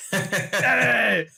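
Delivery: high, laughing; a quick, high "Hey" in a singer's style; impression of a singer. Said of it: "Hey, I'm Beyonce".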